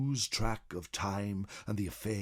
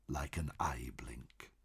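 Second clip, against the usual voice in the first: soft whispered ending, trailing away; hushed whisper; 8 semitones lower, 11 dB quieter than usual. A narrator's reading. Narrator warning the traveller about lost years, whispered. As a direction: let it vanish in a whisper. Ominous lore narration, time passing.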